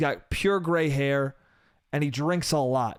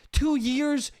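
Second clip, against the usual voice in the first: slow, higher indignant two years; drawn out; 9 semitones higher than usual. Real, not acted. Comic complaining to audience, slow and indignant. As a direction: stretch it out in disbelief.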